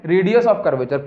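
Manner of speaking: "Radius of curvature" said very slowly, word by word; slow answer. Shown as a demonstration. Teacher answering own quiz question for the class, slowly. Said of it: "तो इस रेडियस को हम क्या बोलते हैं".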